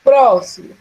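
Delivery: next rule call. Real, not acted.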